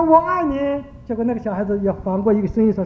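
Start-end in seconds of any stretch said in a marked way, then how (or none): 0.0-0.8 high, drawn-out call into the mountains. Retold or imitated. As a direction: act out a child calling to someone unseen. Child calling out into the mountains. (模仿孩子向山里高声呼喊)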